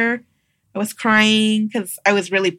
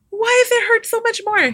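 retold pain; 12 semitones higher than usual. In the shower during labor pains.

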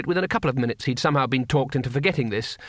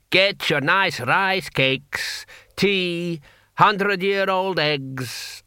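high, drawn-out hawker's call; street vendor's cry; 5 semitones higher, much slower than usual. Acted. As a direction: call your wares slowly down the alley. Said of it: "The voice erupted further down the alley".

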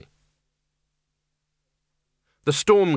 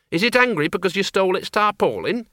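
put-on high worried old woman; 7 semitones higher than usual. Miss Flitworth asks.

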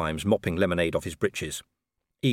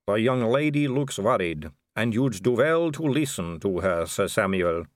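slow, higher-pitched aristocratic advice; smooth vampire lady; 4 semitones higher than usual. Acted. Vampire advising Sir Samuel to listen, measured. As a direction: advise him with measured poise.

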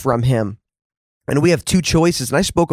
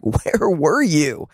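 slow hurt question; much slower than usual. Acted. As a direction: ask it slowly as if hurt. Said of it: "this question surfaces in many of our hearts".

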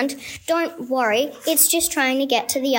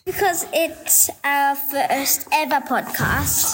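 awkward joy; slower than usual. Acted. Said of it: "you are one enthusiastic lady".

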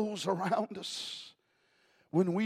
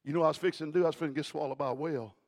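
fast first take; much faster than usual. Shown as a demonstration. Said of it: "You didn't hear what I just said".

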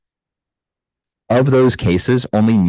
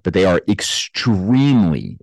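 extremely stressed to insist the danger is rare; 3 semitones higher than usual. Real, not acted. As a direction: lean hard into the word extremely. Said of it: "and I emphasize the word extremely".

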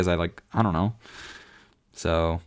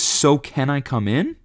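mock casual ask; 6 semitones higher, slower than usual. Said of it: "Like he had been asking me already".

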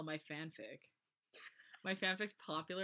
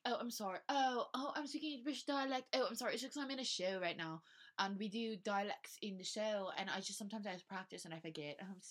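high-pitched, affected apology; stereotypical theater kid; 4 semitones higher than usual. Acted. Theater kid apologizing for slipping into dialect, affected high voice. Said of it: "like, the stereotypical theater kid thing".

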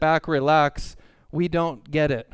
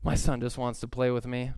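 gentle reminder. Retold or imitated. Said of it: "take a second and go".

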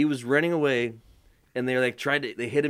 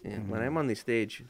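wrestling promo voice; 4 semitones lower, 7 dB quieter than usual. Acted. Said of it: "This is my wrestling voice".

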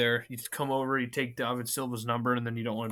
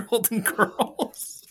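mocking sing-song; 11 semitones higher, 4 dB louder, much slower than usual. Teasing friend's fandom.

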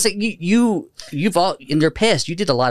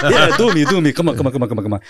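Israeli cantor; faster than usual. Retold or imitated. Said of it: "burly Israeli guy".

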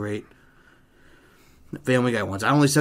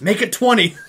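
high, loud holler on a laugh; playful, laughing yell; mock urgent shout; 9 semitones higher, 8 dB louder than usual. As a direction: shout it back, playing eager. Mock excited exchange continues.

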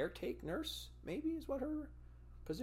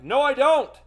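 much higher, much louder "no"; shouted refusal; 16 dB louder than usual. Retold or imitated. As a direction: yell back a flat refusal. Refusing the mask.

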